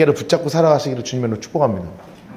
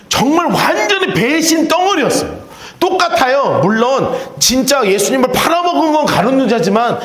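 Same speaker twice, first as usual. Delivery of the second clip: impassioned preaching; 5 semitones higher than usual. Acted. Preaching at full force.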